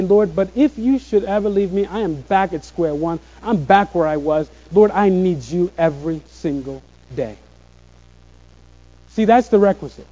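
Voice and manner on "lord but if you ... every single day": softer, hushed plea to the Lord; humble quiet prayer. Acted. Preacher voicing the believer's daily plea, hushed and humble.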